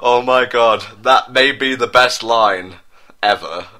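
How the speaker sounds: real glee, laughing aside; delighted. Real, not acted. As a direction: marvel at the line. Reader delighted by fic line.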